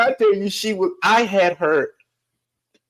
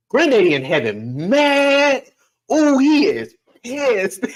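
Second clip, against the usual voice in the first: mock outrage; 8 semitones higher, slower than usual. Teasing grandma in the car.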